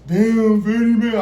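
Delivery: friend blurting out loud and high; mock panicked shout. Friend panicking at the cops: loud high shout. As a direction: yelp it out in alarm.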